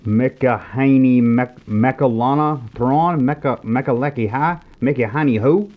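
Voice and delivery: slow, struggling tries at "Mekaleki Hai" and "Mekahani Ho"; fumbled name. Acted. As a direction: stumble slowly through "Mekahani Mek-, Mekalana Thrawn", getting the name wrong each time. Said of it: "tries hard to say the name Malachi Throne correctly".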